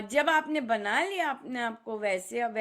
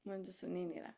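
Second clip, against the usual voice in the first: mock deaf murmur; 6 semitones lower, 13 dB quieter, much faster than usual. Repeated softer mock deaf.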